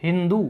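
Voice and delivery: हिंदू with a breathy h for the s of सिंधु; हिंदू, h replacing the s; Iranian ha for sa. Shown as a demonstration. Teacher repeats the Iranian pronunciation हिंदू for the class. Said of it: "सिंधु को क्या उच्चारित करेंगे".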